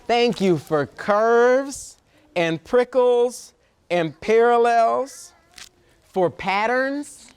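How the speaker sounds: slow, measured picture-book reading with long pauses; reading to children. Acted. Reader shares a love letter to Earth with children, slow storytime reading. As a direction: read it out phrase by phrase for little listeners.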